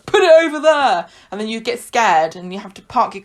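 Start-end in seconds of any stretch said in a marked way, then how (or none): 0.1-1.1 gruff order. Retold or imitated. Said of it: "And he says".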